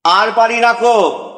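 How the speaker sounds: a fed-up wife's mild outburst; harsh mistress. Acted. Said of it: "রুক্ষমূর্তি বলে". (গিন্নির রুক্ষ অভিযোগ)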